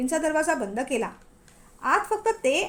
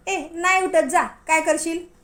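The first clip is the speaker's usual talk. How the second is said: defiant taunt; 3 semitones higher, 5 dB louder, slower than usual. Acted. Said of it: "ती म्हणाली".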